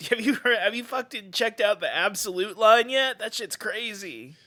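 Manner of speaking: put-on high-pitched impish boy character; Peter Pan. Park character chatting comics with Alan, high Peter Pan impression. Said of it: "That's my Peter Pan impression".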